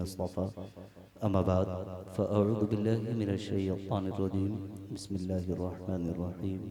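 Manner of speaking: measured Arabic invocation; sermon recitation. Acted. Preacher opening with Arabic praise, measured recitation.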